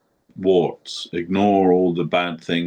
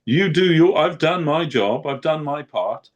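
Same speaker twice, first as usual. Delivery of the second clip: raised, earnest plea to the Lord; pleading prayer to Krishna; 3 semitones higher than usual. Retold or imitated. Guru addressing Krishna with a raised, pleading voice. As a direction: beg the Lord, voice lifted high. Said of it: "He said something like that".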